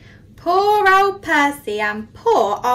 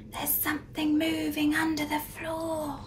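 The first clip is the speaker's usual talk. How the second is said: softer, hushed line; 4 semitones higher, 8 dB quieter than usual. A narrator's reading. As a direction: hush it as if something might hear. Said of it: "whispered Percy".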